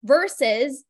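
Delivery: ordinary talk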